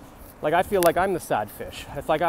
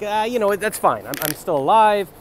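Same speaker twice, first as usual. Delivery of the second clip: goat voice; 6 semitones higher, 7 dB louder than usual. Pretend. Goat voiced, speaking higher.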